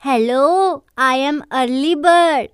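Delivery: disguise your voice on the phone; muffled voice. Pretend. Sanam hides as Early Bird calling Jaan, muffled disguised voice. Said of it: "दबी दबी आवाज़ में".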